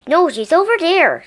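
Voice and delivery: high, loud correcting call; shout. A narrator's reading. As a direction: contradict loudly. Witch arguing location.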